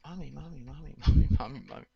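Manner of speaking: lightly imitated sing-song toy voice; talking toy. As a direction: repeat it like a stuck talking toy. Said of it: "And it always said".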